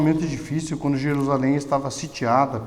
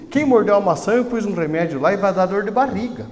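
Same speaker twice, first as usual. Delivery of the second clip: stern warning; 5 semitones higher, 4 dB louder than usual. Retold or imitated. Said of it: "Porque ele falou assim".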